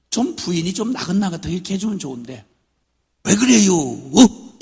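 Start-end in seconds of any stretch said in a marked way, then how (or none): 3.2-4.6 loud, sharp annoyed question; mother snapping at her husband, loud and annoyed; mother's irritated snap. Retold or imitated. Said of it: "막 이러니까".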